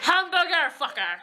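1 mock German. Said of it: "that's how you say hamburger".

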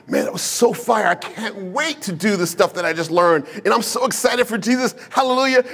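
acted churchgoer enthusiasm; all motivated. Churchgoer leaving after a great message, acted motivated excitement. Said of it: "you leave church all motivated".

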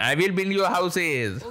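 mock-grand promise. Gamer promising the villager houses, drawn-out mock-grand. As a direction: draw each word out in mock proclamation.

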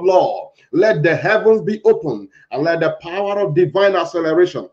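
emphatic, declaimed prayer in short phrases; fervent prayer. Acted. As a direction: call on God with insistent, repeated pleas. Leads fervent congregational prayer.

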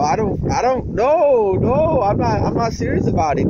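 high, laughing squeal of a denial; giggly no, I'm not serious. Real, not acted. Laughing off an accusation.

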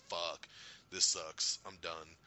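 low, soft resignation; acted defeat. Thanos looking defeated as retold, low resigned voice. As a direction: imitate a villain giving up, voice dropped.

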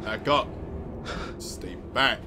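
breathless whisper. Real, not acted. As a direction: whisper it so she won't hear. Hiding, pursuer near.

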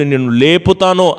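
voice of God. Retold or imitated. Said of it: "అని మాట్లాడుతుంటే".

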